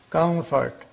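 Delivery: "Comfort" with m gliding into f; hidden M before F. Shown as a demonstration. Teacher repeating the British example, "Comfort" with m hidden before f. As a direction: let the m of "Comfort" form at the f. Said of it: "when M comes before F".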